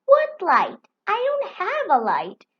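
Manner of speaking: sharp, loud, high snap; snapping. A narrator's reading. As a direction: snap back at her friend, annoyed. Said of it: "snapped Firenze".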